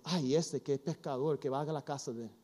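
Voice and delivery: lightly voiced muttering gossip; mock murmuring. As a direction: mutter it like a disapproving crowd. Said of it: "la gente murmurando".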